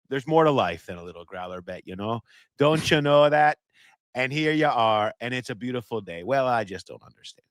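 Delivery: hammed-up Minnesota accent, folksy Fargo quote; Fargo-style Minnesotan, badly faked; terrible Minnesota accent. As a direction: do a shaky amateur Minnesota accent. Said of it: "That's my terrible Minnesota accent".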